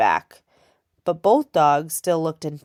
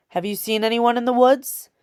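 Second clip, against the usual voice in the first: a gruff, higher bark of a question; 7 semitones higher, 3 dB louder than usual. A narrator's reading. Soldier interrogating the girl in the woods, barking. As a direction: demand it like an order. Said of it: "The soldier barked the question".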